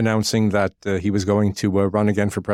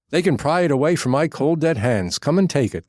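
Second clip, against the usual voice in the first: mock defiant quote; 5 semitones higher than usual. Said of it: "I'm sorry I don't have his Texas accent".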